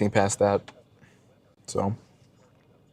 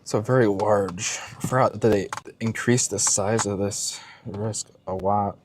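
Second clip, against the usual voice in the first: chewing while talking; slower than usual. Real, not acted. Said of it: "Can you hear me eating right now?".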